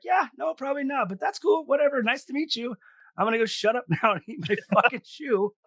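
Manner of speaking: very high awkward backpedal; high embarrassed squeak. Retold or imitated. Teller backpedaling to Amy, high embarrassed squeak. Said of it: "I was like".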